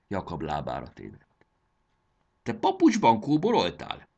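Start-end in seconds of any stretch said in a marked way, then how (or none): 2.4-4.1 high, loud outcry; shouted. A narrator's reading. Tearful mother notices her son's slippers, shouting at him. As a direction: shout the question in astonishment. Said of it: "kiáltott rá".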